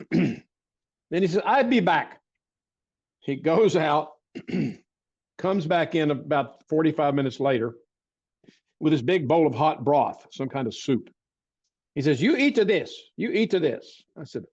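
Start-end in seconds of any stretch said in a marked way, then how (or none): 1.4-2.2 silly voice. Retold or imitated. Recalling the barefoot doctor at his bedside, in a higher silly voice. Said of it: "the silly voice I'm doing". 12.2-14.0 silly voice. Retold or imitated. Recalling the barefoot doctor at his bedside, in a higher silly voice. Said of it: "the silly voice I'm doing".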